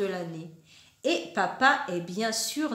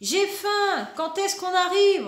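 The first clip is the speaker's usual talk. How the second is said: put-on whiny child; 7 semitones higher, 4 dB louder than usual. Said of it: "renchérit Julie".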